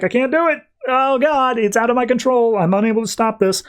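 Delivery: very high, straining helpless cry; mock panic. Kyle losing control of his energy, hammed-up panic. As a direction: wail it high, as if overwhelmed.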